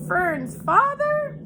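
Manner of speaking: high, slow, sobbing wail. A narrator's reading. Pig sobs asking about Fern's father, high and slow. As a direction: wail it through tears. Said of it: "sobbed Wilbur".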